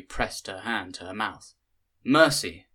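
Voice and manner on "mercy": a sudden startled call, higher and louder. A narrator's reading. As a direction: call out in alarm to a stranger at a cliff edge. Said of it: "a woman called from behind".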